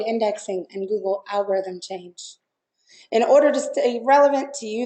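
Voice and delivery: hoarse, croaky voice; frog voice. Real, not acted. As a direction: croak it out with a worn-out voice. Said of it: "with my frog voice".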